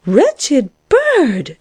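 high, affronted outburst; indignant exclamation. A narrator's reading. Caterpillar insulted by the lark's claim, exclaiming indignantly. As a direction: exclaim in high-pitched outrage. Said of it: "exclaimed the caterpillar".

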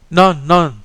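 firm, high and loud refusal; resolute exclamation. Acted. La Folle refusing the boy's fear, firm and loud. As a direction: flatly deny he's dying. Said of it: "she exclaimed resolutely".

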